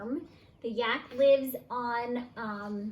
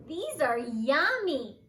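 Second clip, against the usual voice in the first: pleased; 2 semitones higher, 5 dB louder than usual. Acted. Young yak enjoying the food.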